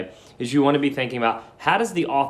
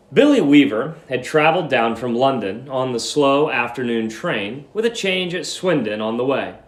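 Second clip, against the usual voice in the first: steady read-aloud narration; story narration. A narrator's reading. Teacher reading a story aloud to students, measured narration. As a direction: read the story clearly to the class.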